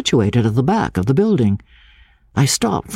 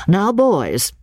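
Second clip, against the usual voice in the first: strict teacher; 8 semitones higher than usual. Acted. Schoolmaster voiced in reading.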